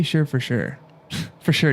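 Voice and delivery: "sure" said as "shur"; "sure" rhyming with "her"; Canadian "for sure", with an er vowel; Canadian pronunciation. Shown as a demonstration. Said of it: "We say".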